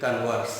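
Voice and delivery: कन्वर्स with the stress on the second syllable, kon-VERS. Shown as a demonstration. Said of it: "बात करनी है तो बोलेंगे कन्वर्स".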